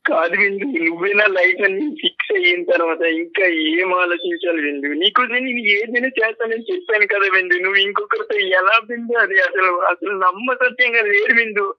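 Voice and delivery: tearful protest of devotion; crying. Real, not acted. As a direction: still weeping as he pleads. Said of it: "అసలు ఆ ఏడుపు ఏంటి గోపాల్". (ఏడుస్తూ వేడుకోలు)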